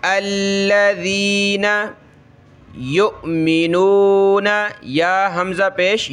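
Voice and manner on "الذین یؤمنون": یؤمنون with a clear catch on the hamza; slow recitation, jolt the hamza in یؤمنون; glottal stop. Shown as a demonstration. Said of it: "جھٹکا دیں گے".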